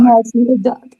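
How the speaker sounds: laughing out the words; amused, giggly agreement; chuckling through it. Real, not acted. Both laughing at the dog story.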